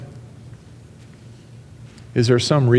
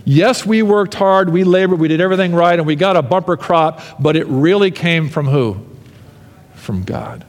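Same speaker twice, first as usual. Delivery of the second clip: proud then humble; 4 semitones higher than usual. Acted. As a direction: build up then drop to From God. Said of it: "reminding them".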